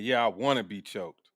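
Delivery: low, sultry mock of the woman; mocking her. Mock her line to the caller, lightly sultry. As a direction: lightly mimic her wanting it. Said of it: "The way she said it".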